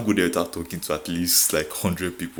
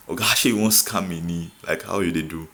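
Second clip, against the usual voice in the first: mock Pidgin challenge. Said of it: "I go speak broken for you".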